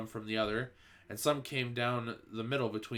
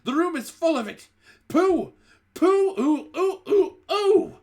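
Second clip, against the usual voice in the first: very high, loud shrieks of disgust; shrieking disgust; 12 dB louder than usual. A narrator's reading. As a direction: screech like a crowd of witches. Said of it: "they shouted".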